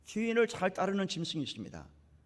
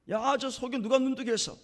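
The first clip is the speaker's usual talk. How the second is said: higher-pitched acted demand; confrontational grilling; 6 semitones higher than usual. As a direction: imitate someone demanding to know who did it. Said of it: "막 따지는 거예요".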